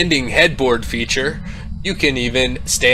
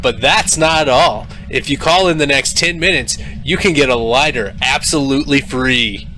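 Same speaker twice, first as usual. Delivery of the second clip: hard sell ad. Acted. Infomercial pitch.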